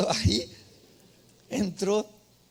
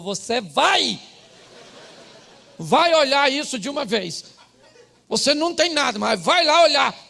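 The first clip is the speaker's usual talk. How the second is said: louder, higher, pushy wife insisting; insistent wife; 6 semitones higher, 8 dB louder than usual. Retold or imitated. Wife urging husband to see the doctor, loud and insistent. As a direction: mimic the wife bossing him to go.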